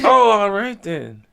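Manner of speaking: high, slow words through clenched teeth; talking through teeth. Retold or imitated. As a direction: imitate Tip through his teeth. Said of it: "That's how Tip talk. He talk through his teeth".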